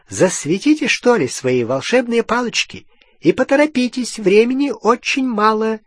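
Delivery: high, urgent goblin voice. A narrator's reading. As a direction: hurry them along like a sly goblin. Goblin Griphook urging. (высокий торопливый голос гоблина)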